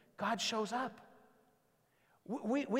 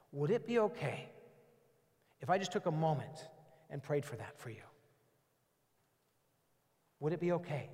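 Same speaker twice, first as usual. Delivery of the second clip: soft, unhurried request, trailing quieter; gentle asking; 4 semitones lower, 4 dB quieter than usual. Shown as a demonstration. Pastor showing how to gently offer prayer to a hurting friend, soft and tender. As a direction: ask permission tenderly, no pressure. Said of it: "You ask permission".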